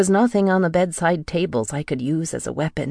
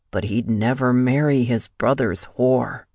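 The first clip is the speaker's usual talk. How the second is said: low sneer on marry; contemptuous sneer; 3 semitones lower than usual. A narrator's reading. Captor sneering at the woman, cold contempt. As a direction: spit the insult coldly.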